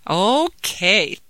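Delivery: put-on a touch of childlike gratitude; drawn-out okay, then mild thanks; grateful. Daughter thanks mother for a story break, grateful. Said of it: "said Jamila gratefully".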